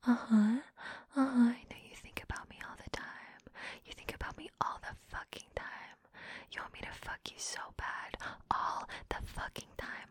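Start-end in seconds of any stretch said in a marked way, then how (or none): 1.5-10.1 quick teasing whisper. Acted. Teasing her partner, hurried whispered taunts. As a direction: rush the taunts in a hushed whisper.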